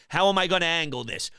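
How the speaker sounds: ordinary delivery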